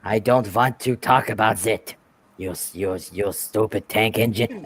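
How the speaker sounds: mock German accent; German James. German James refusing to talk, mock German accent. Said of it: "used to call him German James".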